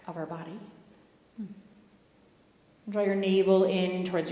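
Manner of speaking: calm, even instructor voice guiding the pose; yoga guidance. Acted. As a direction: lead them gently into the pose.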